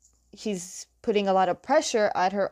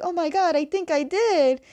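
much higher, giddy disbelief; amazed excitement; 8 semitones higher than usual. Retold or imitated. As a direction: squeal it like he can't believe it. Student amazed at his own bending.

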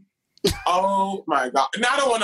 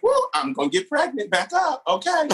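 higher, hammed-up alarm; mock panic; 9 semitones higher than usual. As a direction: play a flustered girl pushing him off. Mock panic while kissing.

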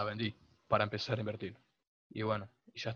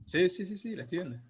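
emphatic; 8 semitones higher, 6 dB louder than usual. Real, not acted. Insisting he sees the screen.

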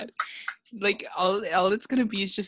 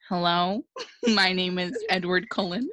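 put-on a light English accent, nearly his own voice; a faint English accent slipped in with a laugh; Robert Pattinson English accent. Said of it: "my Robert Pattinson doing an English accent impression".

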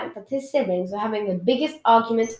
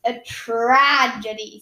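sarcastic sigh; 4 dB louder, much slower than usual. Acted. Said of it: "sighed Edward sarcastically".

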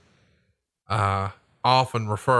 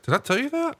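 much higher, startled squeak of a question; shocked friend; faster than usual. Retold or imitated. Friend baffled that host knows his secret, high startled question. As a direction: play the friend caught off guard, voice jumping up. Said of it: "He's like".

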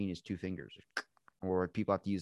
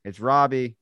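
loud greeting; 5 semitones higher, 12 dB louder than usual. Retold or imitated. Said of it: "My grandpa answers it like that".

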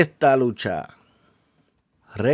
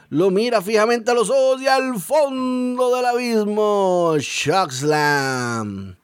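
dramatic commentator call; 4 semitones higher than usual. Acted. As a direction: build it up, then slam the name down. Climactic finishing move call.

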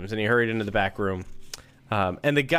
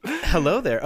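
Southern Pee Wee Herman; 6 semitones higher than usual. Acted. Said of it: "I like that voice".

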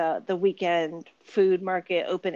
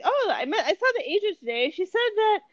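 higher-pitched imitation of a Turkish mother; mom's Turkish accent; 9 semitones higher than usual. Mom telling daughter about an agent, imitated Turkish accent. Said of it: "that's my mom's Turkish accent".

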